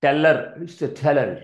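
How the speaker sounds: teller said slowly with a single l; slow teller for the class; model pronunciation. Shown as a demonstration. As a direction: sound out teller with one l. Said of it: "double consonants ఎక్కడున్నా సరే ఒకటే పలకాలి".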